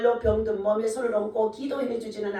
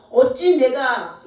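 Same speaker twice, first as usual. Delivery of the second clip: anguished cry; 4 semitones higher, 10 dB louder, much slower than usual. A narrator's reading. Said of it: "가슴을 치며 자기 옷을 찢으며".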